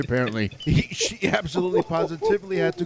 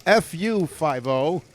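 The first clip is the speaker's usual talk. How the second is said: mock yell, higher on the first words; retold yell; 3 semitones higher, slower than usual. Reporting a woman's insult to cops, mildly yelled. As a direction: call it out like a quoted taunt, then ease off. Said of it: "apparently she yelled out".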